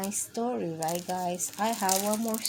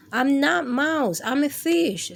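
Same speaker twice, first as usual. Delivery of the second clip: fish voice; 5 semitones higher, 4 dB louder than usual. Acted. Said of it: "say the fish".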